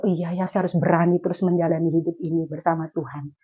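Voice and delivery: understated, low-voiced realisation; quiet self-resolve. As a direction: retell an inward resolution softly. Retells quiet resolve to herself.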